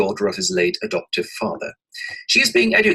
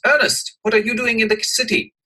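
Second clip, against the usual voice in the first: surprised greeting; 12 semitones higher, 4 dB louder than usual. Acted. Algy surprised by his friend.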